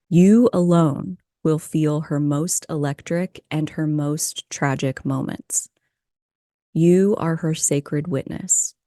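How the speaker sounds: measured poem recital with pauses between lines; poem reading. Real, not acted. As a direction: read the poem aloud, letting each line land. Reads a poem aloud.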